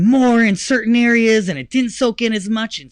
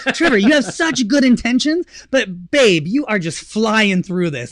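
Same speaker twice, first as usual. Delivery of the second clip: imitating his wife; 3 semitones higher, 3 dB louder than usual. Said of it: "she really did say to me".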